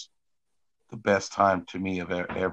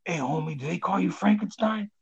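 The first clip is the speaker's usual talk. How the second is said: high mock challenge from a stranger; a pissed-off stranger picking a fight, pitched high; tough stranger; 10 semitones higher than usual. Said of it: "and he says".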